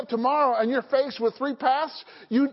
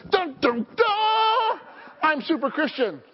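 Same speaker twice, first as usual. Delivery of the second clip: boastful Peter; 6 semitones higher, 3 dB louder, slower than usual. Retold or imitated. Peter boasting, voiced in story.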